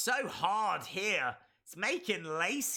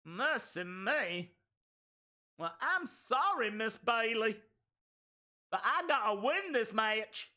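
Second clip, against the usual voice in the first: bad Southern accent; 2 semitones higher than usual. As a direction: put on a poor Southern belle accent. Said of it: "That was such a bad accent".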